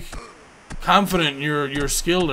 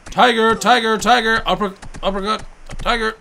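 loud, higher chant of the move; calling out; 5 semitones higher, 4 dB louder than usual. Real, not acted. Player calling out moves to the boxer, loud chant. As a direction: bark each word at the screen.

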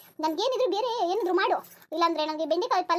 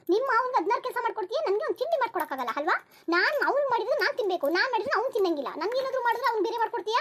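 raised-pitch, indignant grievance; aggrieved complaint; 4 semitones higher than usual. Acted. Mother-in-law complains breakfast is refused to her, indignant. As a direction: list each unfairness in a higher, aggrieved voice.

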